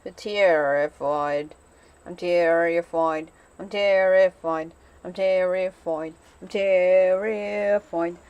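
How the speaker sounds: drawing out "I'm terrified" again and again, truly scared; real terror. Real, not acted. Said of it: "feel terrified".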